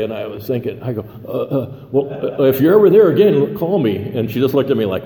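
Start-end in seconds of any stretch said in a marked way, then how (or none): 1.2-4.0 tongue-tied guy fumbling, then pushing the words out; nervous stammering. Retold or imitated. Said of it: "I started stuttering".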